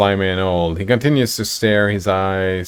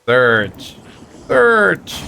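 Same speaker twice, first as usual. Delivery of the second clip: building from lightly to much higher creature voice; old kobold voice; 6 semitones higher than usual. Acted. Old kobold pressing the party, rising creature voice. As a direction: repeat the word insistently like a lizard. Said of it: "the old kobold says".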